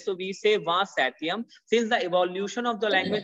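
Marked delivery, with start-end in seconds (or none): 0.6-1.4 SATIUM said "set-yem", with no p; silent P. Shown as a demonstration. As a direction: say va Satium, dropping the p entirely. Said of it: "we doesn't pronounce P of seven".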